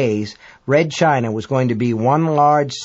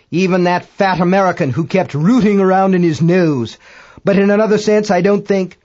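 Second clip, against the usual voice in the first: high, louder astronomer's voice; Dagbolt rambling; 5 semitones higher, 5 dB louder than usual. A narrator's reading. British astronomer muses on dead crewmates, high rambling voice.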